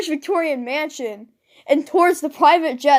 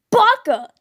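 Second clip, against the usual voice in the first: flustered yell; 9 semitones higher, 6 dB louder than usual. Acted. Flustered catboy yells at butler.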